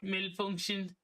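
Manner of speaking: lightly voiced robot alarm; hint of a malfunctioning robot; glitching robot. Mock robot alarm in game.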